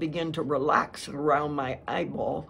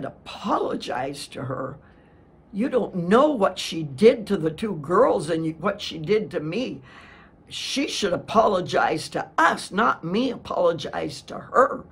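indignant retort; 3 dB louder than usual. Retold or imitated. She retorts angrily to husband.

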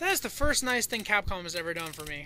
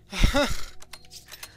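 exasperated huff; 2 semitones higher, 6 dB louder than usual. Real, not acted. Exasperated after dying.

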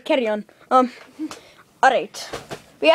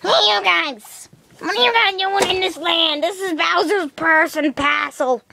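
put-on character challenge; 4 semitones higher than usual. Castle guard confronting intruders in the land, put-on high voice.

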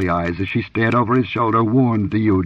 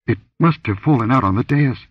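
stammered; 5 semitones higher than usual. Acted. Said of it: "she stammered".

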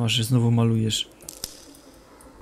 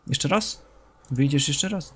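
ordinary talk, nothing marked

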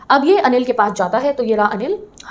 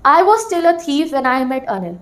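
slow textbook reading; much slower than usual. Shown as a demonstration. Teacher slowly reading the opening line aloud to students. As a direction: read "I was still a thief" very slowly, leaning on "was". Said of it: "तो ये चोर अपनी कहानी अपनी ज़ुबानी बता रहा है".

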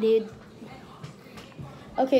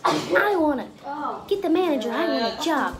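small guy's high voice, higher; high squeaky voice; 5 semitones higher than usual. Retold or imitated. Small dude asks bouncer for manager, high voice. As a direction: pipe it up high like a tiny dude. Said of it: "his voice is really high".

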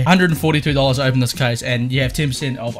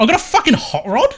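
high surprised yelp; 11 semitones higher, 3 dB louder than usual. Real, not acted. Another surprise drop.

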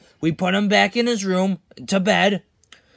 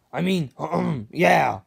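cracking voice; 4 semitones lower, slower than usual. Real, not acted. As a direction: let the voice crack mid-line. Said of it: "weird voice crack".

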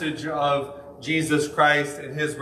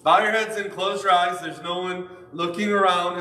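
mock pastor altar call; 5 semitones higher than usual. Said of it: "Jedi mind trick that pastors do".

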